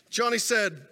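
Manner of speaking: usual speaking voice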